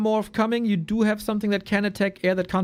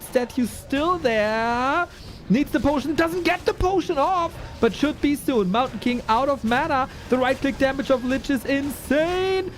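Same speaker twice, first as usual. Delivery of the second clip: play-by-play; 5 semitones higher than usual. Real, not acted. Live casting of the fight.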